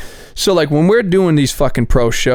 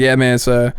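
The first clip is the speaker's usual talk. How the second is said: lightly imitated Midwestern drawl; hint of an easygoing Midwestern drawl. Boxing promoter explaining the show, in a light Midwestern drawl. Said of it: "so mid-, Midwestern drawl".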